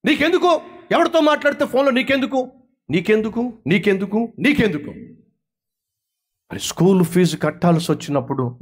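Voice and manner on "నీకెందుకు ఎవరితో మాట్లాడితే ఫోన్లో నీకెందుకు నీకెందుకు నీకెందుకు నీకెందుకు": high, snappish why do you care; a teen snapping at a mother about phone calls; indignant retort. Acted. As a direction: fling the question back, fed up. Child snapping at parent.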